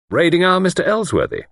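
high, loud and gleeful; gaily. A narrator's reading. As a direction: announce it gaily, pitched well up. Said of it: "Luke said gaily".

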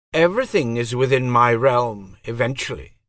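high, cold divine voice; goddess voice. Acted. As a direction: speak as an aloof goddess. Goddess answers Pug.

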